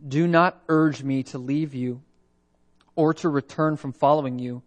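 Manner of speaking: solemn Bible reading from the pulpit; scripture reading. Acted. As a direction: proclaim the text deliberately, word by word. Reads scripture aloud to congregation.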